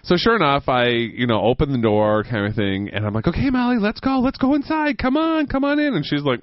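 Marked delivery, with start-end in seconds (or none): 3.3-5.9 high-pitched talking-to-dog voice; coaxing a dog. Retold or imitated. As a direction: coax the dog inside, pitched way up. Coaxing dog back inside.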